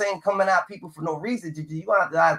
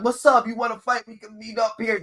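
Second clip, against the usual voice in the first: higher-pitched mock challenge to a fight; mock tough guy; 4 semitones higher than usual. Panelist mocks a man with a point to prove, imitated challenge. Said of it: "try to act up, that they got a point to prove".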